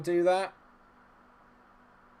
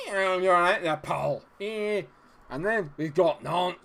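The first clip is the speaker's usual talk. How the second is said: loud, higher-pitched mock Scottish; Scottish accent; 6 semitones higher, 7 dB louder, slower than usual. Streamer gives in to temptation and plays a Scot, Scottish accent. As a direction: put on a big Scottish accent. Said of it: "when you say it in a Scottish accent".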